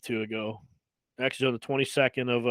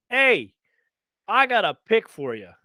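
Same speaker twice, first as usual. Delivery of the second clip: slick salesman; 4 semitones higher than usual. Retold or imitated. Tout's old school phone pitch.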